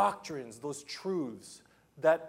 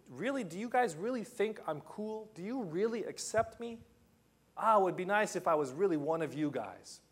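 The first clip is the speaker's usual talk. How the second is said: doubting friend; 3 semitones higher than usual. Retold or imitated. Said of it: "it would be like".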